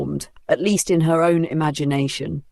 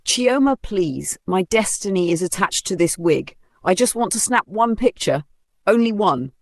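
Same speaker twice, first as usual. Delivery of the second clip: mock wailing; 3 semitones higher than usual.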